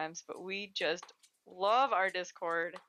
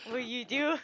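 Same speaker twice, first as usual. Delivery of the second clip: a light sing-song question to the puppy; cute pet voice; 4 semitones higher than usual. Real, not acted. Asking Benny the puppy what he's doing, light cooing voice.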